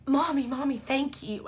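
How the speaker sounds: imitating a tearful child, high-pitched; mock tearful little-boy thanks to Mommy. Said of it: "Why are you crying?".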